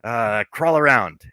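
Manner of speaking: slow, doubtful demand with a slight push; skeptical. Retold or imitated. MJ doubting the new Spider-Man, slow and skeptical. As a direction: dare him to prove it, unconvinced. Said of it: "she's just so skeptical".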